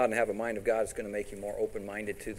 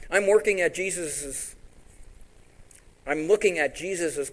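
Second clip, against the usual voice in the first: preaching; 6 semitones higher, 6 dB louder than usual. Acted. Preaching climax.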